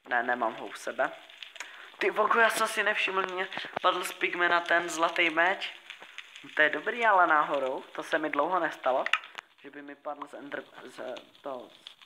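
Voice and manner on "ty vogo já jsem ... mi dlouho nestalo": surprised. Real, not acted. Notices golden sword drop.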